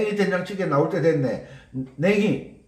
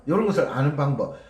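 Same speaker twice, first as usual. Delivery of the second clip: 요런 것을 아는 방법 said lower and quicker, 요런 leading; quick low repeat; 4 semitones lower, faster than usual. Shown as a demonstration. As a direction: toss off 요런 것을 아는 방법 low and fast.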